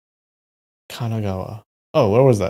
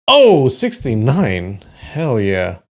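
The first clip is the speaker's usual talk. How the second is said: excited cheer; 2 semitones higher, 8 dB louder, slower than usual. Real, not acted. Celebrating score in map quiz.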